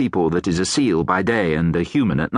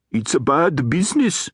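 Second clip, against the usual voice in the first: a hint of a grave troll; troll weighing the trouble, mildly grave; lightly voiced troll; 4 semitones higher than usual. Troll consoling the hag about Gladys, lightly grave.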